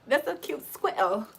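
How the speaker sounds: squirrel as "skwettle", imitating UK speech; mock UK squirrel. Teasing the way they say it, mock UK accent. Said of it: "I can't believe they say squirrel".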